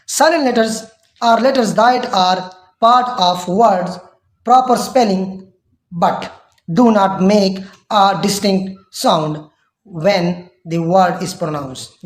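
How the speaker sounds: definition read out word by word, very slowly; slow dictation. Shown as a demonstration. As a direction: dictate it slowly so students can write. Reads definition slowly aloud. (धीरे-धीरे लिखवाते हुए पढ़ना)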